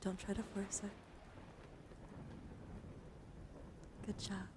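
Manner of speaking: hushed, unhurried relaxation voice; guided breathing meditation. Acted. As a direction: guide them gently through each breath. Leads a breathing exercise.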